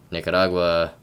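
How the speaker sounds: Nicaragua in a learned Spanish accent. Real, not acted. Student naming countries as Spanish class taught, Spanish accent. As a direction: give the country its Spanish pronunciation. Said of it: "I'm pronouncing in a Spanish accent".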